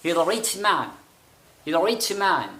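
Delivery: rich said with aspirated chh at the end; teacher models rich ending in breathy chh. Shown as a demonstration. Teacher shows students rich with chh ending. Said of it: "छ के अंदर convert करना है".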